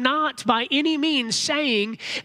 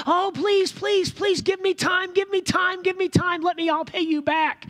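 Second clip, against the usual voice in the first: high-pitched, desperate mock pleading; begging and pleading; 8 semitones higher than usual. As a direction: act out a servant begging his master for time. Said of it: "he starts begging and pleading".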